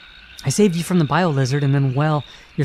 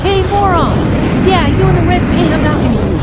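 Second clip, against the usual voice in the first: loud, high jeering call; taunting shout; 9 semitones higher, 5 dB louder than usual. Acted. Sonic calling out the robot villain, loud and taunting. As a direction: yell the insult to provoke him.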